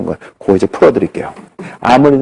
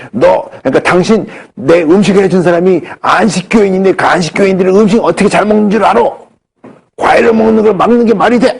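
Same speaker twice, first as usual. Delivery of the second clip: scolding; 5 semitones higher than usual. Retold or imitated. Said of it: "막 야단을 치시는 거예요".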